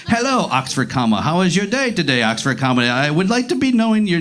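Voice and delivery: stiff bot reading, over-correct and punctuated; dating-site bot. Acted. Bot messaging a date on a dating site, stilted reading. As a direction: read out every word like a scam bot. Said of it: "You can almost read it in a Russian accent".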